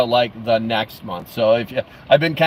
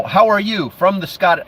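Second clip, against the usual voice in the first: higher, half-sure Scottish accent; shaky-footed stab at Scottish accent; attempted Scottish accent; 6 semitones higher than usual. Shown as a demonstration. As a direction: have a go at a Scottish lilt. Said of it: "I don't know if I sounded Scottish".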